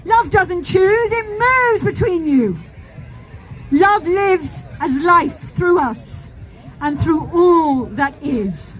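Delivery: warm serene goddess voice. Acted. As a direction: bless your children as the goddess.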